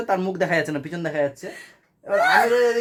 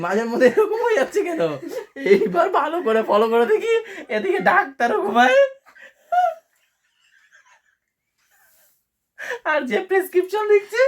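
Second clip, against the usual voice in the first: much higher pitch, cracking up mid-sentence; laughing retelling; 11 semitones higher than usual. Real, not acted. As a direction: struggle through the story while laughing. Cracking up over sleeping doctor. (হাসি চাপতে না পেরে উঁচু গলায় বলা)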